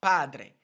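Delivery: padre with a tapped r, loud; Spanish padre. Shown as a demonstration. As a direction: say padre, flap the r. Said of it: "try to say the word padre".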